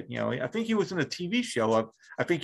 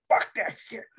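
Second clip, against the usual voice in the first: a touch of a high Lewis Black rant, half-whispered; mock Lewis Black outrage about pineapple; 9 semitones higher than usual. Host hamming up Lewis Black over pineapple pizza, mock outrage. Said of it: "I'm gonna pull a Lewis Black".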